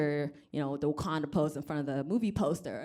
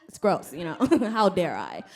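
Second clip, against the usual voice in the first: ordinary talk, nothing marked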